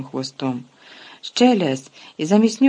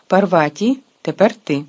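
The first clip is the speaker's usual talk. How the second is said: louder teacher call to the next pupil; 2 semitones higher, 6 dB louder than usual. Acted. Teacher calling Parvati forward, loud. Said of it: "професор Люпен вигукнув".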